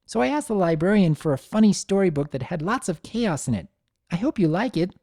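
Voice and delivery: put-on high, quick excited child; eager little filly. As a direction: rush through it, bursting to share. Child Sunny voiced.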